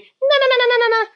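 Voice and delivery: very high squeaky nagging babble; high mock nagging na-na; mock wife arguing. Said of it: "she was arguing".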